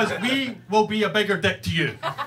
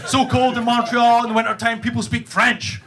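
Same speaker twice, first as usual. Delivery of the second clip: slightly raised, emphatic mock boast; boastful one-upping; 4 semitones higher, 3 dB louder than usual. Canadian butting in to top John's winter story, boastful. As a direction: top them with a bigger winter.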